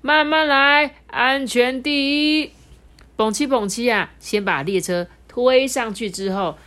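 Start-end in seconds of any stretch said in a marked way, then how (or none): 0.0-2.5 loud, high, slow directing call; steady the crew with authority; firm command. Acted. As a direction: conductor firmly directing the switch. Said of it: "坚定的指挥着说".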